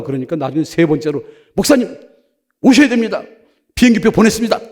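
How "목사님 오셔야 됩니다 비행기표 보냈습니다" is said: louder, urgent retold summons; firm, loud phone plea; insistent caller. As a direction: press the pastor firmly to come. Acts out the persistent caller.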